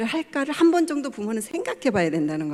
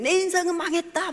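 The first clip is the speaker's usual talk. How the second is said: much higher, imitating a daughter crying it out for all to hear; loud mock wail; 8 semitones higher than usual. Mother imitates daughter declaring her life ruined, loud. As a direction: throw it out loud so the whole house hears. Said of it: "막 이러는 거예요. 크게. 다 들리도록".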